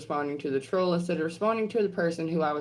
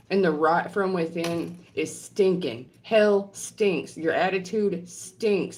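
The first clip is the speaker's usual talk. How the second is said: angry rant; 3 semitones higher than usual. Real, not acted. Furious rant at trolls.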